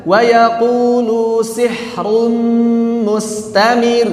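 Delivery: slow "mustamir" with a short r; one beat on the r of "mustamir"; model reading. Shown as a demonstration. Teacher reciting a model line for students. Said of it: "Ro-nya cukup satu harokat".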